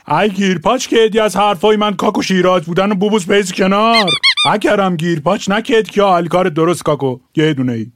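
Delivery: relaxed Shirazi dialect, like a local from Shiraz; a light Shirazi accent. Shown as a demonstration. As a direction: talk like a real Shirazi. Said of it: "فرق یه شیرازی".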